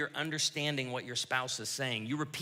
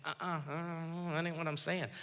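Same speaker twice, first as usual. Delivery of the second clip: 1 mock spouse objecting; 2 semitones higher, 6 dB quieter than usual. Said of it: "he or she may say".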